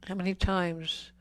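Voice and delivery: How many times, pressed hard and loud; forceful rhetorical question. Acted. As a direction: drive the question home at full voice. Rhetorical question hammered at men.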